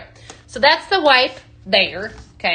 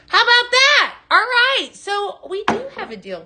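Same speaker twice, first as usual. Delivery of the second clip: excited reveal; 10 semitones higher, 3 dB louder than usual. Real, not acted. Announcing a free deal.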